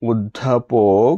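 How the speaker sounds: অধ্যাপক slowly as "oddhapok"; slow, careful অধ্যাপক, "od-dha-pok"; correct pronunciation. Shown as a demonstration. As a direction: stretch out অধ্যাপক with a doubled ddh. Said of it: "সঠিক উচ্চারণ".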